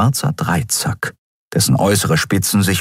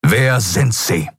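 slow, each word of Wer sind Sie hit sharply; every word stressed; 4 semitones higher, slower than usual. A narrator's reading. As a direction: cut out Wer, sind and Sie like an executioner's axe. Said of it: "betonte jedes einzelne Wort mit der Schärfe eines Henkerbeils".

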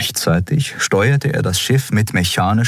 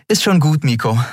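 higher voice, lightly dismissive; captain playing it down; Endriel brushing it off; 9 semitones higher than usual. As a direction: wave off the worry. Endriel waves it off.

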